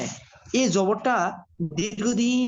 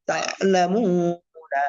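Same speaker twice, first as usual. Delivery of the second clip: তাআলামুনা as one word, long মু; joined reading; much slower than usual. Shown as a demonstration. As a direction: flow through তাআলামুনা, stretching মু. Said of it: "চালু করে দিলে reading হয়ে যায়".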